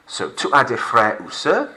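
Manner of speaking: "frères" and "sœurs" said with no final s; French "frère ou seur", S silent; silent S's. Shown as a demonstration. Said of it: "Silent S's".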